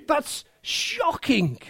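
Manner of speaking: hushed, slow whisper. Real, not acted. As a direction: drop to a breathless whisper. Preacher whispers for effect.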